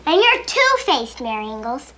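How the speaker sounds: angry. Acted. Sisters quarrel.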